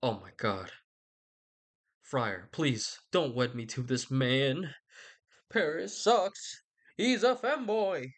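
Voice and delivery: slow, whiny put-on plea to the friar; pleading Juliet. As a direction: drag out a begging teenage complaint. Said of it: "Juliet's like".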